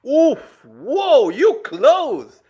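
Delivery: high, loud gasp of surprise; surprised whoa. Real, not acted. Reacting as the guess lands close, surprised. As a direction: caught off guard by a close guess.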